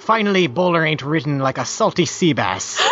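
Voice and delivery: put-on light old sailor lilt; lightly voiced salty pirate. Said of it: "read in a pirate voice".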